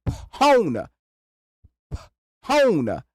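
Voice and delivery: Pahona with a puffed P and a clear H; sounding out PH. Shown as a demonstration. Mocking silent letters, pronounces phone as Pahona. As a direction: say Pahona, voicing P and H apart. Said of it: "If you wanna put that P H on there".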